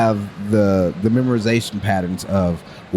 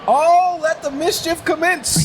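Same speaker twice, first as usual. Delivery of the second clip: mischievous; slower than usual. Pretend. Voicing himself when family leaves.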